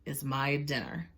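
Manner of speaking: slow, low-ish gloating crocodile; slow greedy crocodile. Acted. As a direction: savour each word like a meal. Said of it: "she thought".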